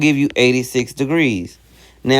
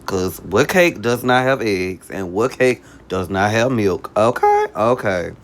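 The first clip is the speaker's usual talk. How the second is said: raspy voice; 3 semitones lower than usual. Real, not acted. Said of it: "excuse the raspy voice".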